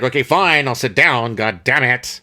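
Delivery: imitating a grudging surrender; exasperated mock compliance; mock exasperation. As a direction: give in with mild, acted annoyance. Voices scientist giving in at gunpoint.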